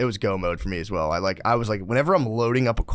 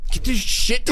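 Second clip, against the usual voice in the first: high, loud tantrum yell; toddler tantrum; 13 semitones higher, 4 dB louder than usual. Retold or imitated. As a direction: throw a toddler fit. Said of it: "a toddler freak out".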